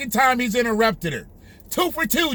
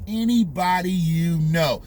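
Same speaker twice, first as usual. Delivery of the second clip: slow, lower mock of a politician; the speaker's contempt; 5 semitones lower, slower than usual. Commentator echoes the politician's clip, slow and contemptuous. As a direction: draw it out with imitated disdain. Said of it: "He spoke with contempt in his voice".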